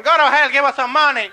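loud, high demand; hammed-up dismissive yell; heckling crowd. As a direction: shout back at the politician. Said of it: "Puerto Ricans are going".

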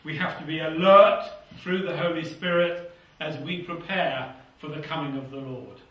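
ordinary delivery

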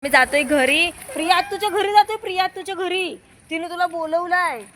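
high, loud cheerful coaxing; enticing. Real, not acted. Mother luring her daughter home with Priya's name, bright and high.

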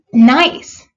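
emphatic exclamation, then slow and earnest; mildly solemn pronouncement. A narrator's reading. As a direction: declare it with slow conviction. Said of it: "said the water rat solemnly".

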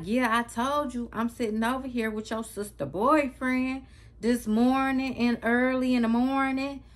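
MORNING and EARLY pushed high and loud, imitating mom; emphasis on words. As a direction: lean hard on "morning" and "early" like a coded hint. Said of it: "she put emphasis on her words".

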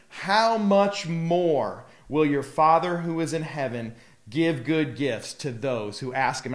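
slow, emphatic scripture reading; exclamatory emphasis. A narrator's reading. Preacher reading Jesus' promise of good gifts, exclamatory emphasis. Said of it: "There's an exclamation point there".

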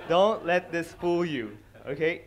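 usual speaking voice

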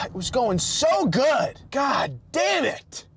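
slow, high, loud exasperated shout; frustrated yell. Real, not acted. Driver stuck at the curb, slow exasperated shout. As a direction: let the frustration boil over. Road rage after hitting curb.

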